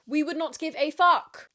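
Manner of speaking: rising emphasis. Real, not acted. Repeats line rising.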